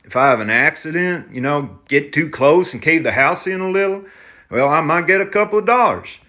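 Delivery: defensive and pleading; tractor driver voice. Acted. Driver warns of house.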